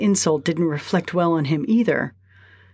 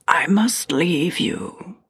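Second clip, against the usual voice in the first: slow, stiff, awkward announcement; stilted voice; much slower than usual. Acted. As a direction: say it stiffly, word by word. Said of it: "in her stilted voice".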